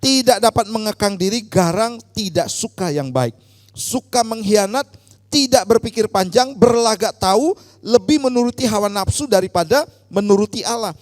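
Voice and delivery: loud, forceful declamation of Bible verses; projected, emphatic reading aloud; loud scripture reading. Real, not acted. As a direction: lead the congregation reading out in a strong voice. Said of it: "dengan suara yang keras".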